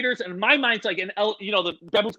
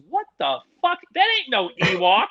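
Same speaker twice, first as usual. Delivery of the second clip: raised-pitch retold objection; imitated band member; 3 semitones higher than usual. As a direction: mimic disbelief at a bad excuse. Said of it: "like that".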